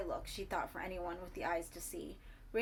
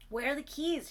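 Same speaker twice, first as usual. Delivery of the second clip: higher, loud, urgent; urgent repeat; 7 semitones higher, 6 dB louder than usual. A narrator's reading. Bertie to entranced Ricky, urgent and loud. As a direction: demand it again, urgent. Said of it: "she asked again".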